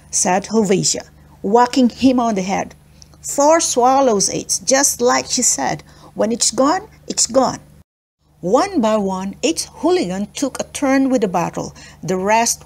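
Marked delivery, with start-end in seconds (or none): 3.2-7.6 stern. Acted. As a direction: lay down the law. Helvetia lays down the rule.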